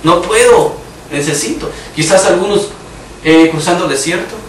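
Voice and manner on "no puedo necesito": retold plea to God. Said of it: "Yo le he gritado al Señor".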